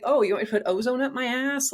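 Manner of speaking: lightly mocking a pushy practitioner's suggestion; sarcastic mock quote. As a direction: scoff at the offer in disbelief. Mocking the treatments she was offered.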